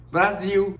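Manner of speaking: spring the surprise on him; playful reveal. Retold or imitated. Brazilian housemate reveals he's Brazilian too, teasing.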